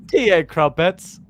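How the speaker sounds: put-on slow, plummy British accent; posh English accent. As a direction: savour it like an English aristocrat. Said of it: "talking a bit like an English posh person".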